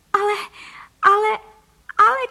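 high, loud, panicked cries of the wife; shocked wife's cry. A narrator's reading. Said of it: "křičela paní Frejková". (vysoký, hlasitý zděšený výkřik)

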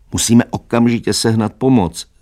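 rally everyone to act at once; urgent call. A narrator's reading. Alarmed character calls for help. (naléhavé, hlasité zvolání)

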